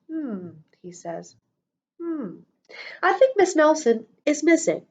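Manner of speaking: pondering detective. Acted. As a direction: ponder it like a clueless sleuth. Detective musing slowly.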